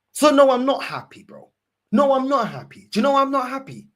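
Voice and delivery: loud, high, furious rant; angry shout. Real, not acted. Fan shouting at the Arsenal manager, furious and loud. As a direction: yell it straight at him.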